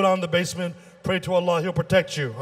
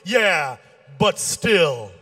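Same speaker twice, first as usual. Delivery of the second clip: stubborn comeback; 2 semitones lower, much slower than usual. Acted. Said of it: "He kept arguing. Finally, he goes".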